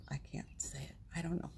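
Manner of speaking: whispered, choked with feeling; real whisper, overwhelmed. Real, not acted. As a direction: barely breathe the words out. Too moved to read aloud.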